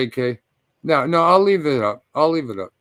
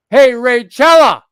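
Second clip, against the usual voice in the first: louder, higher and slower on the name; loud call-out; 7 semitones higher, 9 dB louder, slower than usual. Real, not acted. Streamer calling out Raychella on stream, loud slow call-out. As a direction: call her out by name, dragging it.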